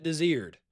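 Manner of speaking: "Desired" as duh-ZEERD; "Desired" as the local street name; local pronunciation. Shown as a demonstration. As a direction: say "Desired" in two syllables, as locals do. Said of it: "You pronounce it".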